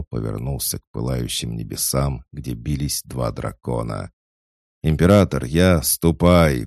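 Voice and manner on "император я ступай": booming arrogant alien overlord; thundering roar. A narrator's reading. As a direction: roar it across the battlefield. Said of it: "прогремело эхо битвы".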